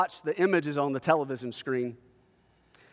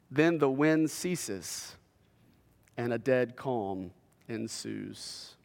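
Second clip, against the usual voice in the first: slow, much softer, fading; hushed narration; 4 semitones lower, 5 dB quieter, much slower than usual. A narrator's reading. Preacher describing the storm ceasing, slow and hushed. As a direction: let the words settle into calm.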